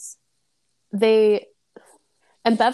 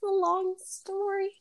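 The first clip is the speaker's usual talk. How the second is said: laughing echo; 10 semitones higher, 4 dB quieter, slower than usual. Retold or imitated. Echo of co-host's quote.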